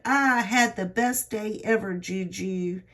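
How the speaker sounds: a grandmother lightly imitating a thrilled child; excited granddaughter. Granddaughter telling Juju about her arcade day, excited. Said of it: "And she was so excited".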